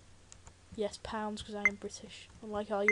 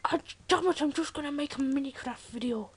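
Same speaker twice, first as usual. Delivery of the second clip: mock frustration; 4 semitones higher, 4 dB louder than usual. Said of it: "I was like".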